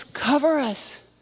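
high, slow pleading cry; desperate plea. A narrator's reading. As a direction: beg the mountains to fall on you. Hills begged to cover them.

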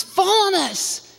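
high, slow pleading cry; desperate plea. A narrator's reading. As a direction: beg the mountains to fall on you. Mountains begged to fall.

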